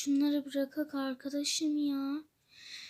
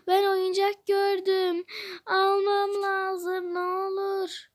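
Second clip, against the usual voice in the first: put-on childish begging; 4 semitones higher than usual. Begging friend for a toy.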